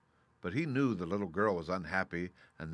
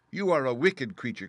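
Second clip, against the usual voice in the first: put-on high, loud, outraged girl; indignant child's cry; angry cry; 5 semitones higher, 7 dB louder than usual. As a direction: cry out in anger at the witch. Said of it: "cried Dorothy".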